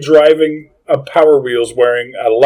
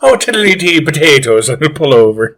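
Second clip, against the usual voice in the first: mock Irish accent. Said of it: "if our Irish accents are bad".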